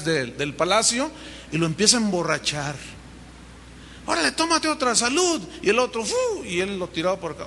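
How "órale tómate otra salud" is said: high, hearty mock toasting; lightly voiced king raising a glass; jovial toast. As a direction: egg him on to drink up. David plies Urías with drink.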